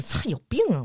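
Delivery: imagined retort. Pretend. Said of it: "我肯定不能这么跟你说".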